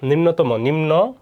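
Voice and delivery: নিম্নতম whole, then slowly split as "nimno... tomo"; teacher breaking down নিম্নতম with a rounded final vowel; sounded-out demo. Shown as a demonstration. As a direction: repeat নিম্নতম in two slow parts ending in o. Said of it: "অ এর উচ্চারণ উকার হবে".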